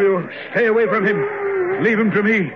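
high, strained call to stand clear; urgent command. Acted. Father orders the staff away from his son, in a high urgent call. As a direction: order everyone back in alarm.

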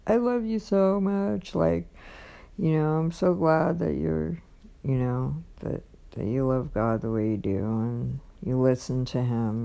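softened, heartfelt declaration; tender retelling. Retold or imitated. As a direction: imitate him gently pouring out gratitude. Retells his tender declaration of love.

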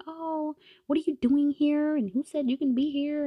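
lightly voiced mean girl; snotty groggy Heather. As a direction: sneer from bed half-awake.

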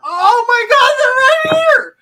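screamed, high and slow; shrieking excitement. Pretend. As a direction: shriek like you found treasure. Mock excitement at gift shops.

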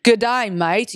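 convincing mock Aussie greeting; Australian accent. Shown as a demonstration. Podcaster dares co-host to try it, Australian accent. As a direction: show them a good Australian accent. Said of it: "that was actually pretty good".

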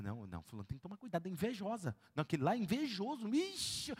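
soft, conspiratorial warning; hushed gossip. Retold or imitated. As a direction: lean in and gossip quietly. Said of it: "gossiping warning".

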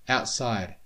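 ordinary delivery, nothing marked

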